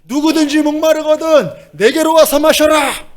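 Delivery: very high, stretched-out shout; piercingly high cry, held long; straining crowd call. Acted. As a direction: holler over a noisy crowd with no microphone. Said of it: "마이크도 없는 그때".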